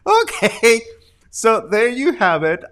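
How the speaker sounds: high, loud through laughter; laughing. Real, not acted. Host recovering from laughing at clip, high and loud. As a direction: still cracking up. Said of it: "teary-eyed because of the laughing".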